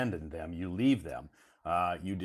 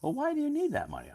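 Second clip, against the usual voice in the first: mock nosy question; faster than usual. Imitated nosy question to borrower.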